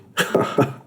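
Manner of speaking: a short knowing chuckle; amused chuckle. A narrator's reading. Host grinning at the kid's question, chuckling. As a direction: laugh it off with a grin. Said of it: "He grinned".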